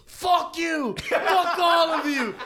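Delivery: high, loud mock yell at everyone; furious shout. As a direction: scream it like the angry bouncer. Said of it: "the guy just starts going".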